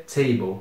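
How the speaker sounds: TABLE said as an English word, "TAY-bol"; English pronunciation. Shown as a demonstration. Teacher shows students how it is pronounced, English pronunciation of TABLE. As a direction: demonstrate English TABLE with a long "ay". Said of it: "se pronuncia".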